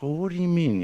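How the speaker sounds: high-pitched, lightly acted disbelief; incredulous cat. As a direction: question it high, as a mildly baffled cat. Cat questions the sad rabbit.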